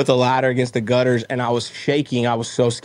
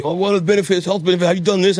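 curious questioner voice; 6 semitones higher, faster than usual. Retold or imitated. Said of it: "people will ask me".

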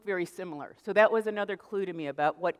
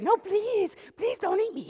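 much higher squeaky pleading, playfully frightened; scared bacon voice; 14 semitones higher than usual. Retold or imitated. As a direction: play the terrified bacon begging for mercy. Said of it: "does the bacon all scared".

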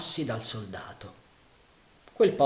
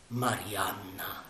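slow, soft hiss of her name; 4 semitones lower, 6 dB quieter, much slower than usual. Acted. Sandokan seeing Marianna at the window, slow soft hiss. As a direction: breathe her name out slowly. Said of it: "sibilò".

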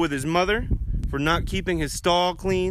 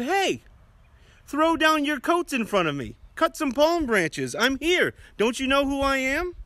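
much higher, bossy donkey voice demanding attention; proud donkey; 8 semitones higher than usual. Acted. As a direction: play a vain little donkey showing off, pitched way up. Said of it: "And so he said".

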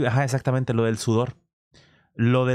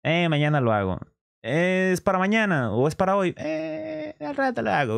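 lazy carefree self; 5 semitones higher than usual. Retold or imitated. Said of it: "Yo soy un cabrón muy relax".

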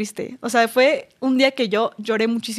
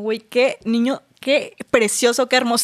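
swooning admiration. Retold or imitated. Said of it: "yo decía como".

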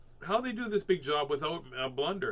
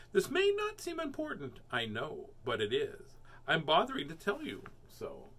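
newsy storybook voice; story reading. A narrator's reading. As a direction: announce it like a kids' story. Reading aloud to children.

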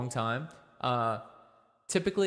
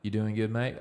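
put-on Australian accent. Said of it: "typically Australians talk like this".

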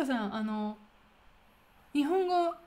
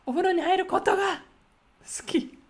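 ことが loud, high and quick, then a pause before 好き; big high stress on ことが with a breathy 好き after; emphatic ことが; 7 semitones higher, 5 dB louder, faster than usual. Shown as a demonstration. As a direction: build hard onto ことが, hold off, then release 好き. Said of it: "And you're gonna stretch more".

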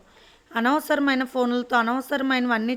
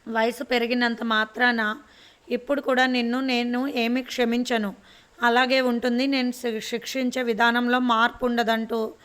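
stern scolding. Acted. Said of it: "తిడుతున్న Durgamma గారి".

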